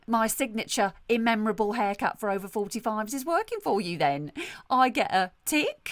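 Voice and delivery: self-satisfied salon owner, lightly played; lightly voiced brusque hairdresser. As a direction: play a breezily tactless hairdresser. Sketch as salon owner Sue.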